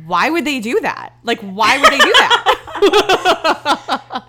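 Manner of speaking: high, loud, slow mock panic breaking into laughter; mock terrified. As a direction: ham up her terror while cracking up. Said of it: "genuinely terrified".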